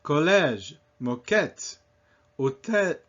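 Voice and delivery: Collège, moquette, hôtel, each landing on the final syllable; French list, final syllables punched in Collège, moquette, hôtel; stress on last syllable. Shown as a demonstration. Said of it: "Always on the last syllable".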